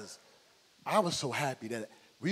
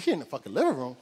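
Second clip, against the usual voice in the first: louder, disbelieving question; incredulous echo; 6 dB louder than usual. Retold or imitated. Uncle shocked the bully is inside the house, incredulous. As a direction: throw it back in disbelief.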